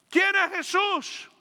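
drawn-out, searching question; a slow challenge to the congregation; slow rhetorical question. Acted. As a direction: stretch each word of ¿Quién es Jesús? slowly. Preacher repeats question, drawn out.

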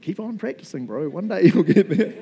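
laughing mock encouragement; jokey pat on the back, laughing; teasing. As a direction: tease him while laughing. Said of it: "some of you might be like".

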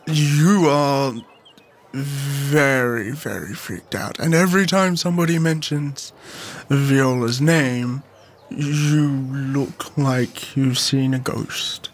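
low, slow, weary questioning; grave, measured demand for answers; serious Charlie confronting. Acted. Player voices Charlie confronting Abella.

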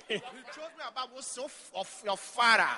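sarcastic laughing. Retold or imitated. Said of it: "I speak sarcastically".

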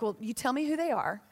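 laughing through a protective promise; half-joking, chuckling as you say it; laughing mock threat.

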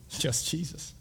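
soft, airy reveal; hushed answer. Real, not acted. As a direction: answer your own question in a near-whisper. Hushed answer to own question.

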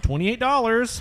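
high, incredulous price quote; shocked. Retold or imitated. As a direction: squeak the price in disbelief. Retold shock at beer price.

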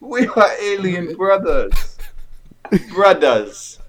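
put-on a faint French accent; a hint of French on brothers; mock French accent. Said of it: "Jamaican French accent".

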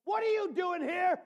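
high, loud challenge of God in the cave; booming God asking Elijah. Acted. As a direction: call out the question as God. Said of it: "a voice comes to Elijah and says".

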